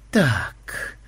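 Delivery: mildly accusing, rising at the end; understated suspicion; stern questioning. A narrator's reading. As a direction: question like a strict superior. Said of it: "строго спросил он".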